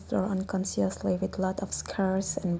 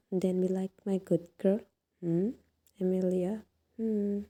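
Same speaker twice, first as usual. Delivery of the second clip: soft, coaxing mother; gentle coaxing; 3 dB quieter than usual. Acted. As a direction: coax her kindly, hushed.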